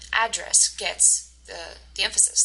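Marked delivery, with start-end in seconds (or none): 0.1-0.7 "address" slowly as AD-dress; first-syllable stress. Shown as a demonstration. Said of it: "the first part".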